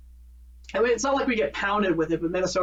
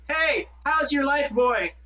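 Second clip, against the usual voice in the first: southern greeting; 6 semitones higher, slower than usual. Retold or imitated. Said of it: "they actually want to talk to you and say".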